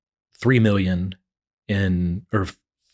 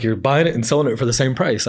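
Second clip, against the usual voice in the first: higher-pitched mock scolding; retold yelling; 4 semitones higher than usual. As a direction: imitate a partner's protest without really shouting. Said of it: "my partner's in there yelling at me".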